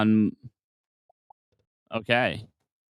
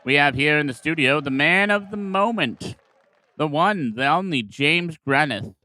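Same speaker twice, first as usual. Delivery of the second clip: higher, bright TV presenter announcing a guest; TV host intro; 3 semitones higher than usual. Acted. Host welcoming viewers to Monster TV, presenter voice. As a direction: sell the guest like a talk show host.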